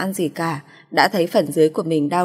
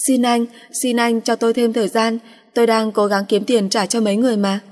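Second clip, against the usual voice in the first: higher, frightened begging; pleading; 5 semitones higher than usual. Acted. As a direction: plead for more time. Waitress begs debt collectors.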